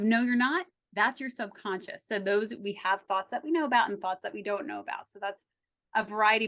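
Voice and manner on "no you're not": critical inner voice. Retold or imitated. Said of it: "That little backdrop of".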